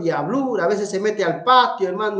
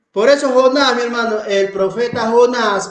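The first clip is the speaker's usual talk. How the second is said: louder call on Jonás; preaching emphasis; 3 semitones higher, 5 dB louder than usual. Real, not acted. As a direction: proclaim Jonás to the church. Predicador enfatiza a Jonás. (el predicador proclama fuerte)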